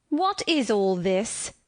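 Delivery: slow, commanding mistress; peremptory demand. Acted. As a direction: demand it slowly, brooking no reply. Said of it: "demanded another voice peremptorily".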